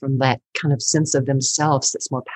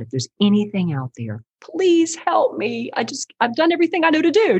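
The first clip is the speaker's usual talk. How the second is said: retold desperate plea; 8 semitones higher than usual. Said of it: "I just screamed out".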